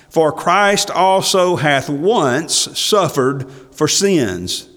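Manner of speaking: slow, weighty verse reading; scripture quote. Acted. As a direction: lean on each word of the verse.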